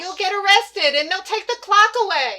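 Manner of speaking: high, loud, alarmed shout; urgent warning. Acted. Ghost warning doctor of arrest, urgent.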